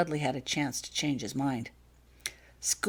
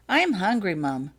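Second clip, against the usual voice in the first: put-on a small girl telling her mother she's hungry; piping up; 3 semitones higher, 4 dB louder, slower than usual. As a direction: chirp it like a hungry child. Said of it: "Holly piped up".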